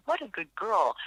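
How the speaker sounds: light sing-song praise; happy sing-song. Shown as a demonstration. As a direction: praise a dog, bright and bouncy. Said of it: "a happy little sing-song voice".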